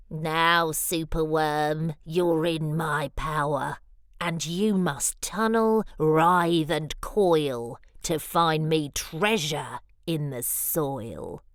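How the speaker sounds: low, lightly menacing wizard command; a hint of an evil wizard casting a spell; lightly voiced villain. Wizard lizard ordering Superworm, lightly menacing and low.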